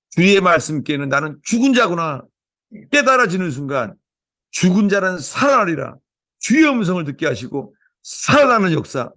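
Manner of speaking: opening prayer. Real, not acted. Pastor praying over the church, fervent prayer. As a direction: pray it out over the congregation.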